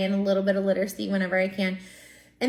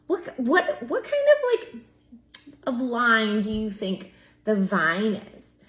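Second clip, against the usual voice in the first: pitched way up in playful wonder, then slow; mock amazement; slower than usual. Shown as a demonstration. Teacher to class, acting amazed and slow. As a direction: wonder aloud for the kids. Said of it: "you're gonna go".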